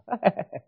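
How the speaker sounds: short high fake laugh; brief put-on chuckle to cover hurt. Teen called an FOB, laughing it off. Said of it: "I laughed it off".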